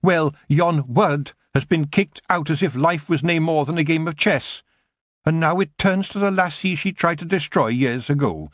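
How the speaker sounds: a wee Scottish warrior scoffing at the elf; tiny Scottish Feegle grumbling about elves. A narrator's reading. Kelder explains.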